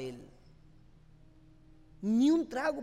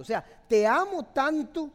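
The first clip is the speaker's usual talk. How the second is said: "te amo tanto" pushed louder and higher, hitting amo; louder emphatic; 6 semitones higher, 9 dB louder than usual. Shown as a demonstration. Pastor modelling a man's words to his girlfriend, louder. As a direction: say "te amo tanto" again with much more force, amo stressed. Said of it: "ustedes deberían de decir".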